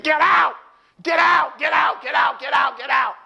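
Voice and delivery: rapid-fire high shouts; imitated angry husband. Husband snatching wife's keys, acted angry shouting. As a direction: shout it over and over, easing slightly. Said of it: "he was angry".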